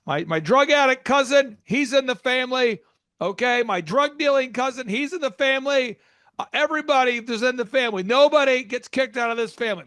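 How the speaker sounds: naive entrepreneur. Retold or imitated. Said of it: "It's like".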